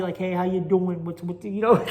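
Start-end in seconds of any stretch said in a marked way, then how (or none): 0.2-1.0 a lightly played-up New York Italian accent. Shown as a demonstration. Showing listeners his emphasized New York Italian accent, lightly played up. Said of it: "I can emphasize it".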